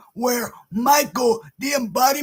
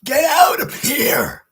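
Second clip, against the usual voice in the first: loud dismissal; 3 semitones higher, 5 dB louder than usual. Real, not acted. Horror fan ordering Yeti guy out, loud and annoyed. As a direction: shout them away.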